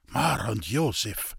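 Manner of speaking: a slow shocked stammer. Acted. Priest stammering at her father's death, slowly. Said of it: "stammelte Herr Felician".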